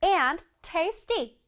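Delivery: very slow, each word drawn out; slow model reading. Shown as a demonstration. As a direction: read slowly for the kids to copy. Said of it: "다시 읽어보자".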